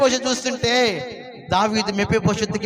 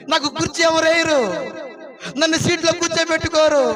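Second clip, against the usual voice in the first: tearful pleading; 4 semitones higher than usual. Acted. Mephibosheth weeps before the king.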